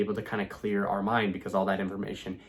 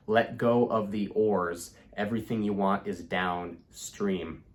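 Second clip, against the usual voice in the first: slow calm quote; slower than usual. Shown as a demonstration. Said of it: "the quote says".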